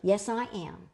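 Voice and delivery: proud, slightly lifted answer; retold proud reply. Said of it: "I was proud, so I said".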